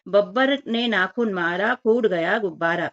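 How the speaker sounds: put-on slow rhyme read to children; sing-song rhyme reading. Shown as a demonstration. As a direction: read the rhyme slowly, like a chant. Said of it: "वाक्य पढ़े और लिखे".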